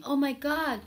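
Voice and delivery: high, shrill mock "Oh my God"; mock screaming parent. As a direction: mimic a panicked liberal parent. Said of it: "They were complaining and screaming".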